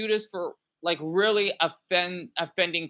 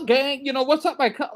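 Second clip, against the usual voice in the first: higher-pitched mock street greeting; mock hood talk; 4 semitones higher, 3 dB louder than usual. Showing viewers talk she avoids, mock hood talk. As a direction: lightly put on hood slang. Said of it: "I don't talk like that".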